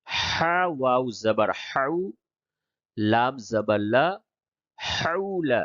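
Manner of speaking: letter by letter, then join the syllables; measured Qaida spelling drill; spelling-out recitation. Shown as a demonstration. Teacher demonstrates hijje spelling to learners, measured recitation. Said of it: "تو پہلے ہجے کر کے پڑھتا ہوں".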